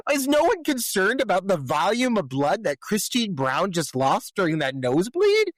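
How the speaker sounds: high, swooping exaggerated disbelief; mock incredulity. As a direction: ask it in comically outraged astonishment. Mock outrage at nobody's concern.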